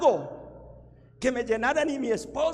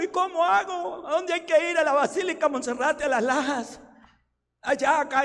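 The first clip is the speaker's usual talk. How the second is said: eager questions; 5 semitones higher, 4 dB louder than usual. Retold or imitated. His own eager retold reply.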